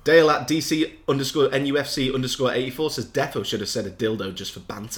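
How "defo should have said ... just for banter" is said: chuckling through the tweet; laughing read. Retold or imitated. To Aidan, reading a reply tweet, laughing. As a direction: read it while half laughing. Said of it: "defo, I don't understand".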